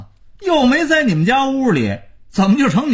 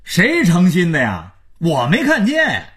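calling out; 6 semitones higher than usual. A narrator's reading. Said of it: "马家儿子撩开嗓子喊".

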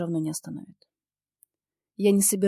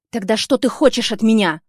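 громкий, выше, с вызовом; бросить вопрос в лицо; раздражённый вопрос; 4 semitones higher, 12 dB louder than usual. Acted. Ссора с бывшим. (героиня раздражённо спрашивает Ника)

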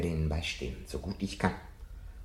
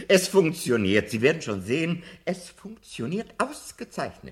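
excited; 9 semitones higher, 7 dB louder than usual. Acted. Professor delighted, gadget works.

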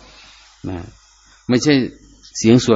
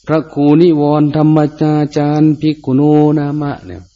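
higher, intoned title read; ceremonial announcement; 5 semitones higher, 3 dB louder than usual. Shown as a demonstration. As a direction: announce the abbot's name formally.

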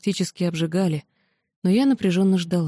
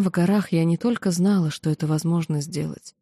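plain reading voice

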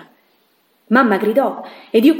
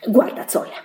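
whispered warning; 4 dB quieter than usual. Acted. Warning Zoila to mind her business.

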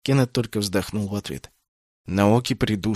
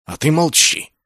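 gleeful high put-down; enjoy shutting him up; gloating rebuke; 7 semitones higher, 5 dB louder than usual. A narrator's reading. Masaona silencing Naoki with glee, gloating rebuke. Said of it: "со злорадным удовольствием осадил его Масаона".

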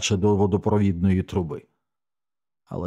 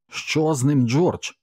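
higher-pitched alarmed call; shouted question; 7 semitones higher, slower than usual. A narrator's reading. Narrator calling to a comrade about the dog, shouted question. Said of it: "крикнув я".

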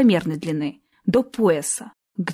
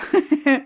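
a short, merry, higher laugh; 6 semitones higher than usual. Acted. Dean amused by the girl's wonder, merry laugh. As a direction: laugh cheerfully at her surprise. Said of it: "весело рассмеялся Дин".

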